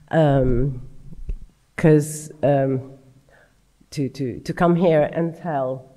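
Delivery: hoarse, strained voice; rough voice pushing through a sore throat; grating voice. Real, not acted. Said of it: "I apologize for my terrible voice".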